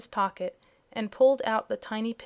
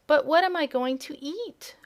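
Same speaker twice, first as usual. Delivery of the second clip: high, louder plaintive wail; wailing kitten; 6 semitones higher, 5 dB louder than usual. Acted. Hungry kitten wails to Dorothy, high and loud. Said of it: "wailed the kitten".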